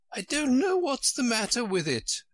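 high, woeful Queen voice; high-pitched storybook melancholy. A narrator's reading. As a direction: lament it helplessly in a high royal voice. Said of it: "said in a melancholy voice".

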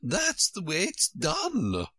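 high, slow, firm queenly pronouncement; decisive. A narrator's reading. Queen instructing Alice, with great decision. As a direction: declare it with great decision, drawing it out. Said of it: "the Queen said with great decision".

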